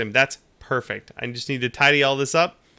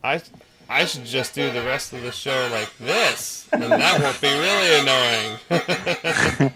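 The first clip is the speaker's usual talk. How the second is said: pitched-up voice modulator, slow; chipmunk voice; slower than usual. Shown as a demonstration. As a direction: talk through a helium voice changer. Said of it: "change the pitch so I can sound like a chipmunk".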